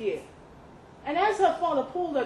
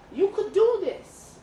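higher, louder and slow, pressing her; a dad coaxing his girl into the ring; eager urging; 8 semitones higher, 6 dB louder, slower than usual. A narrator's reading. Father urging Dakota to fight, slow and eager.

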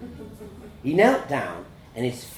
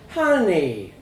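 higher, louder motherly coo; 4 semitones higher, 5 dB louder than usual. A narrator's reading. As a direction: coo it to comfort a child. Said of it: "my mum cooed".

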